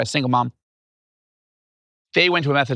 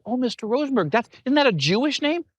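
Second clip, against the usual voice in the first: put-on higher, bright-eyed kid asking; a curious schoolgirl, pitched up; little girl voice; 9 semitones higher than usual. A girl asks her teacher his name, higher child voice. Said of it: "a little girl in that class was like".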